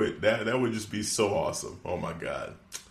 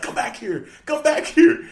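rising to a higher, louder shout; mock yell; 5 dB louder than usual. Host imitating Jericho yelling at the drone, mock shout. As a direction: call after it as it flies off.

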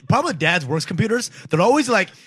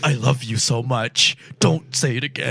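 tender; 3 semitones lower, slower than usual. Retold or imitated. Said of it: "I'm like".

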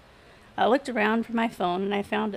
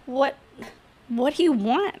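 higher-pitched halting question; stammering; 5 semitones higher, 3 dB louder than usual. A narrator's reading. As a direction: falter and repeat the first word. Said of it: "I stammered".

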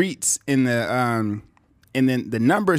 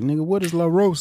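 mock New York guy, higher pitched; New York accent; 5 semitones higher than usual. Imitating puzzled New Yorkers about La Rosa, New York accent. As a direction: put on a baffled New Yorker. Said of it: "niggas in New York would be like".

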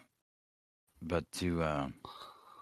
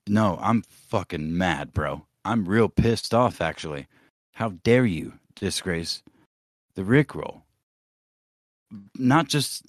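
mock angry. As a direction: put on a mock-furious rant at Sam. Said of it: "I'm angry".

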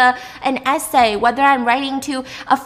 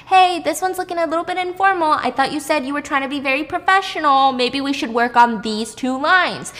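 lightly voiced writing assistant, pitched up; helpful feedback voice; 4 semitones higher than usual. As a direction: start high, then ease into gentle correction. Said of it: "They even give me feedback".

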